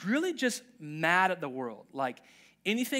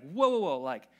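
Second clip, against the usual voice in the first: mock frustrated; 4 semitones higher, 4 dB louder, faster than usual. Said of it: "gets, like, frustrated".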